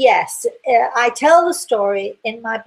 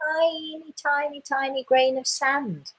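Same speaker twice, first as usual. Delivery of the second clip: small high voice; 7 semitones higher, 6 dB quieter than usual. Real, not acted. Stressing how small the world is.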